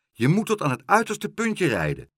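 high, urgent directions; calling out. A narrator's reading. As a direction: keep calling down high-pitched instructions. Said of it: "riep Karel". (dringend roepen, hoog)

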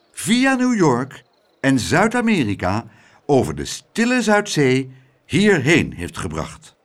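measured, emphatic public oration; addressing the crowd. A narrator's reading. Mayor presenting the flying lift to the crowd, proclaiming. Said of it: "sprak de menigte toe door".

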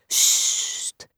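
soft whispered shush. Acted. Teacher shushing the children, whispered. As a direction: hush them with a finger on the lips.

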